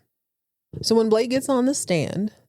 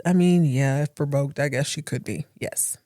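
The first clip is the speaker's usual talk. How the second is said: begrudging; 5 semitones lower than usual. Retold or imitated. Blake on the stand admits Alexis could kill, begrudging and fading. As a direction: give it up grudgingly, trailing off.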